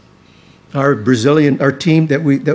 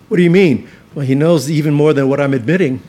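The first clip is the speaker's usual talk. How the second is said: usual speaking voice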